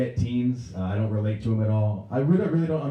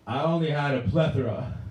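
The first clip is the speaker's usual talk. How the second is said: put-on higher, carefully pompous drunk; trying to sound smart; 5 semitones higher than usual. Drunk man questioned by a cop, trying to sound smart. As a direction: put on a learned air. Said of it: "you know you wanna sound really smart".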